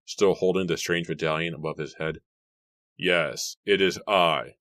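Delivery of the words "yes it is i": plain reading voice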